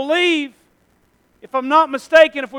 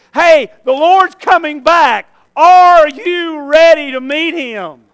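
urgent proclamation; 6 dB louder, slower than usual. Pretend. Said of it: "am I really saturating people with".

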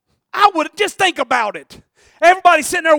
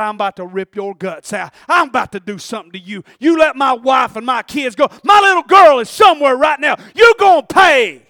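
angry warriors; 5 dB louder than usual. Retold or imitated. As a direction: threaten him, rising to a roar. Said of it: "They said".

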